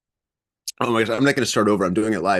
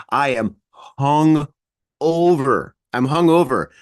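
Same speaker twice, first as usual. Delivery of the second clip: groggy hungover voice; slower than usual. Real, not acted. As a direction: speak like you woke up hungover. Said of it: "see, I can't even talk".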